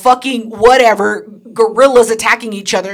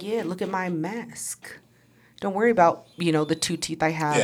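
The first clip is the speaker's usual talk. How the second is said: mock ugly guy; 6 semitones lower, 14 dB quieter than usual. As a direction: mumble it like a proud ugly guy. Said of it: "they're just like".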